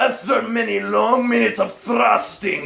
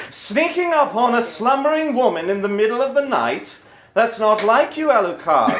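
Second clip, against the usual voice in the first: Integra voice; 2 semitones higher than usual. Acted.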